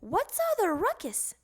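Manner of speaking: mother woken by noise; yelled. Acted. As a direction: call out crossly. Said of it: "yelled his mother".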